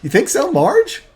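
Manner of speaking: put-on high, loud, questioning young woman; doubtful daughter. Daughter answering her dad about Marge, doubtful. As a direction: go along with it, pitched high and sceptical. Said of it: "she's like".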